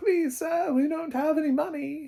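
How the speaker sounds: very high, pitiful, pleading street-urchin orphan voice. Acting out a company as a begging orphan child: put-on pleading orphan voice. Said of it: "Neon is the little orphan child on the side of the street with a little tin can".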